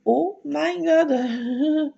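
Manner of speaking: slow drawn-out dismayed groan; mock dismay. Hearing about the two-week wait, slow mock dismay. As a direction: stretch it out in despair. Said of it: "Je fais".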